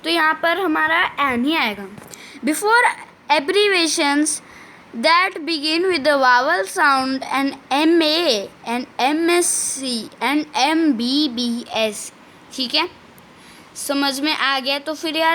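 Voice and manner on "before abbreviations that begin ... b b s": slow, spelled-out reading of the rule; slow dictation reading. Shown as a demonstration. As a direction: read it out word by word for students to copy. Teacher dictating rule slowly. (धीमी श्रुतलेख शैली में पढ़ना)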